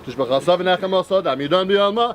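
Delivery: rapid murmured prayer, partly half-sung; quick prayer chant in Aramaic; fast Kaddish recital. Acted. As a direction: rattle through the Kaddish like daily prayer.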